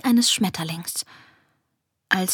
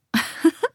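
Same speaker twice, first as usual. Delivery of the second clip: short, high giggle; amused laugh; 8 semitones higher than usual. A narrator's reading. Esmina watching pup's somersaults, amused laugh. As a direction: giggle lightly at a show-off. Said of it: "Esmina lachte".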